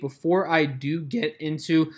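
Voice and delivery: real voice crack mid-phrase. Real, not acted. Host previewing today's trades to viewers, voice cracking. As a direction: let the voice crack by accident. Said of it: "voice crack".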